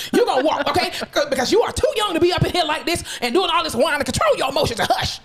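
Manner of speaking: stern scolding. Retold or imitated. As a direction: scold a whining patient. Stern nurse practitioner scolding.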